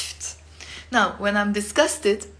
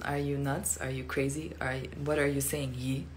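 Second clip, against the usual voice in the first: mock disbelief; 6 semitones lower, 8 dB quieter than usual. Shown as a demonstration. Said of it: "you're saying to the person".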